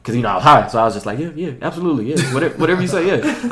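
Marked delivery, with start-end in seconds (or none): 1.2-3.5 spacey eager agreeing. Retold or imitated. Agreeing vaguely to manager while high.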